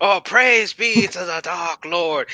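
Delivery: reverent, pious priest character voice. In a role-play game, asked by another player for a priest voice for this character. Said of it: "please do like a priest voice for this character".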